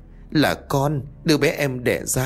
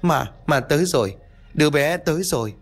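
high, stammering panic; panicked cry; 6 semitones higher than usual. Acted. Ngọc jolting up from bed, panicked. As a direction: blurt it out in terror. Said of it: "hét toáng lên bật dậy".

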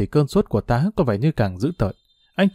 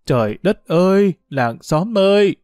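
wailing for help; 5 semitones higher, 3 dB louder than usual. A narrator's reading. Mother calls neighbours that he is killing her, wailing. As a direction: cry out to the whole village in rising alarm. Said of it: "Mẹ Sướng gào lên dữ dội".

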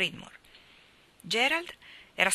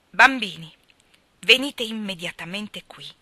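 stern call; 8 dB louder than usual. Acted. Calling the children out of water.

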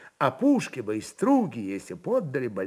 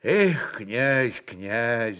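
sighing; much slower than usual. Acted. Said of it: "вздохнул митрополит".

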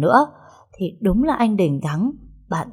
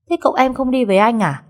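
anxious quick question; 6 semitones higher, 4 dB louder, faster than usual. A narrator's reading. Servant anxiously pressing for master.

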